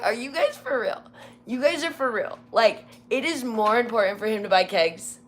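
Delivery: high-pitched disbelief; incredulous retort. Retold or imitated. Joy retorting to the captain and supervisor, incredulous. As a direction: throw it back at them in disbelief.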